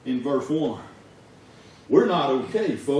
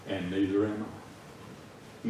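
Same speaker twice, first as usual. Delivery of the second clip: slow, soft admission; quiet confession; 6 semitones lower, 9 dB quieter, much slower than usual. Real, not acted. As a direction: let it sink slowly.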